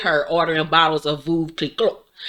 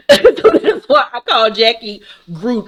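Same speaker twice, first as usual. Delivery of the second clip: laughing; 4 semitones higher, 4 dB louder than usual. Real, not acted. Laughing at own joke.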